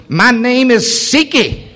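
lightly hammed-up mocking demon. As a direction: let the demon name itself slowly. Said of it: "and it goes".

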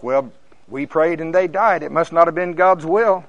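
mock resignation. Mimicking compromisers who excuse failure.

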